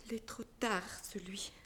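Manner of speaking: resigned whisper. Acted. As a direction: let it fall away, hopeless. Consuelo résignée, à voix basse. (chuchoté, résigné)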